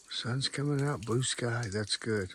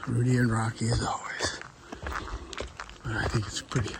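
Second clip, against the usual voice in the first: whispering. Real, not acted. Whispering at camp.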